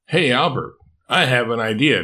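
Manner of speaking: a hint of a sly, eager lizard; lightly voiced playful girl dragon; scheming dragon voice. Draco, plotting a prank.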